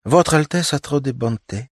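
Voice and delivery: ingratiating. A narrator's reading. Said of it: "вкрадчивый голос Ирины".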